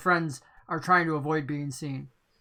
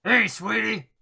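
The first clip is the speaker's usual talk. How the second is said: flirty woman's voice; 3 semitones higher, 3 dB louder than usual. Acted. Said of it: "she says".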